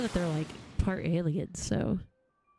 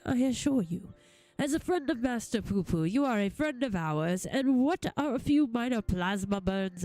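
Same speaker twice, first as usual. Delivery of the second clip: put-on forgiving old-fashioned gentleman. Voices forgiving gentleman character.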